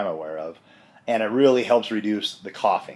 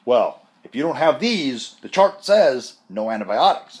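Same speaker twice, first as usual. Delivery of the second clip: adamant doctor; 4 semitones higher, 4 dB louder than usual. Retold or imitated. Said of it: "First doctor was adamant".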